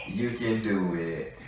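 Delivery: slow, drawn-out sweet quote; imitating Spirit, slow and sweet. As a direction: say it sweetly, stretching the words. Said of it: "That's so sweet".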